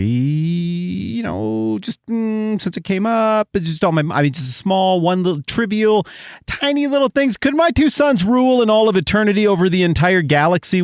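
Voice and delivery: butter him up, then blurt out the huge request; a mother sweetly angling for her sons; coy pleading mom. Pretend. Mom coyly asks Jesus favour.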